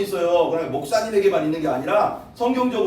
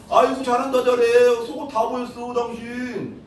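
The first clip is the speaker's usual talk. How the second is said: jeer, then scold him outright; wife scorning the king's dancing; sarcastic scolding; 5 semitones higher than usual. Retold or imitated. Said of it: "막 이런 거야".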